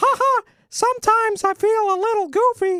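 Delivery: very high cartoon mouse voice. Showing the party voice they used to do, the speaker does a Mickey Mouse voice. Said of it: "a passable Mickey Mouse".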